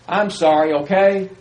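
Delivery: curt, impatient apology with a pushy okay; dismissive sorry. Retold or imitated. Preacher mocking a careless apology, dismissive and curt. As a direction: toss off the sorry, then demand okay. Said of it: "Not exactly a heartfelt sorry".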